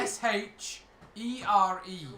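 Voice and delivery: SHERE spelled slowly, letter by letter. Shown as a demonstration. Game master spells the goblin's name for players, letter by letter. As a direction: say S H E R E as five separate letters. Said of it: "his name is".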